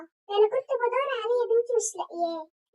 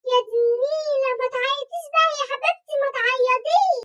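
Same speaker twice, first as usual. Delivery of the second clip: soothing mom; 3 semitones higher, 5 dB louder than usual. Acted. Mom soothing crying daughter.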